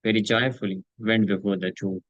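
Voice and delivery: measured, very slow reading of the translation; solemn scripture translation. Acted. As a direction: read each word deliberately to the listeners. Reads translation slowly.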